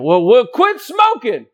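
slow, pleading husband shout; mock husband pleading. Husband shouting at wife to cut costs, slow pleading. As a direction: beg her like the husband would. Husband voiced in smoking argument.

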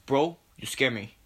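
lightly put-on Spanish accent. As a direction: slip into a mock Spanish accent. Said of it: "I get this Spanish accent".

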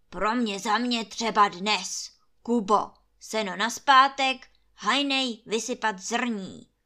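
loud, commanding landlord; barked orders. A narrator's reading. Landlord ordering Kuba and the gamekeeper, loud and commanding. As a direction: bark the orders at the servants. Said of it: "rozkazuje Trautenberg".

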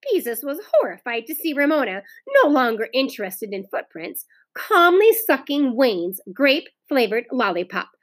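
lively read-aloud with lilting pitch; storybook reading for children; story narration. A narrator's reading. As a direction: read the story expressively to a class. Teacher reads story aloud.

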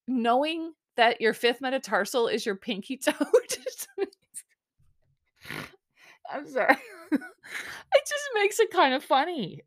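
real laughter breaking into the words; cracking up. Real, not acted. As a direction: try to talk while helplessly giggling. Cracking up over the pinky toe.

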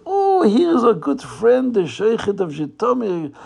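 hammed-up delight at a friend's arrival; effusive welcome. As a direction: greet him like a best friend. Villains greet him as a friend.

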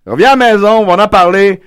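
pleading father. Acted. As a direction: beg your daughter to come home. Father pleading with daughter on-air.

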